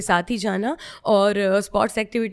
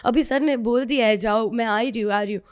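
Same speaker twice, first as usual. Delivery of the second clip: fake phone call. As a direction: rush through a fake phone reassurance. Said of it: "mummy को झूठ मूठ का बोल रही हूँ".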